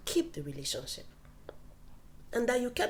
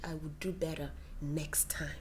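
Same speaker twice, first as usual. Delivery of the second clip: soft apology; 5 semitones lower, 6 dB quieter than usual. Retold or imitated. Voicing husband's apology.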